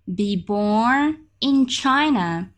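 very slow, breathy model phrase; slow whispered repeat. Shown as a demonstration. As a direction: whisper it slowly for learners. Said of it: "slow model repeat".

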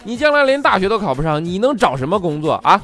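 rising into a loud, high rant; teacher scolding a student in front of class, building to shouts; stern scolding teacher. Retold or imitated. Teacher berating a girl caught reading novels, angry shouting. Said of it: "老师就对她就特别严厉的就训她说".

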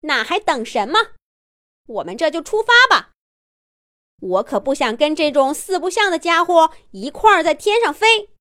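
quick eager reply; eager interjection. Acted. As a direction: jump in impatiently. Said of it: "抢着说". (急切抢着说)

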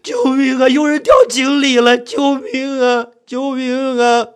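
high, drawn-out desperate yelling; loud cry for help. Acted. Narrator crying that someone fell in the well, desperate shout. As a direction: yell for rescue, stretching each call. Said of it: "我大声地喊着".

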